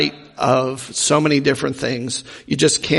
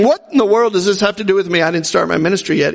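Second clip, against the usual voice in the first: dismissive brush-off; much faster than usual. Retold or imitated. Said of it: "Jesus wasn't saying".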